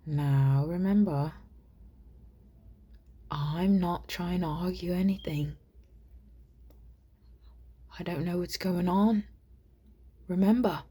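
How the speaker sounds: a light stab at a British accent; amateur, faint British accent; attempted British accent. Shown as a demonstration. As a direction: try out British speech in short phrases. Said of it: "I'm going to try to do it now".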